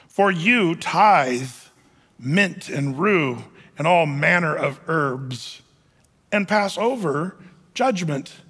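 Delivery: slow, measured Bible reading; weighty, slow pulpit reading; solemn scripture reading. A narrator's reading. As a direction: read the verse out deliberately, with long pauses. Reads the scripture verse aloud.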